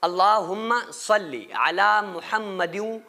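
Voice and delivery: सल्ली with a full, heavy-mouthed first syllable; full-mouthed salli. Shown as a demonstration. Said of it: "सल्ली मुंह भर के निकालना है". (सल्ली को मुंह भर के बोलना)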